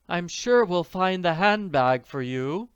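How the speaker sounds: kindly. A narrator's reading. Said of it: "the manager said kindly".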